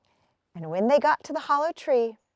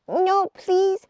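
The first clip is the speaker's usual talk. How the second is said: put-on pleading girl; 7 semitones higher, 5 dB louder than usual. A narrator's reading. Hazel pleads.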